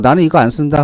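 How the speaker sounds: ordinary talk, nothing marked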